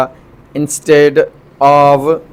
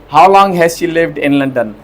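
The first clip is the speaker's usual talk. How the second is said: slow example reading; much slower than usual. Shown as a demonstration. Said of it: "teacher reads example slowly".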